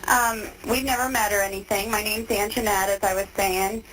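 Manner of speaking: tinny phone-line voices; payphone call. Real, not acted. Recorded phone interview with inmate.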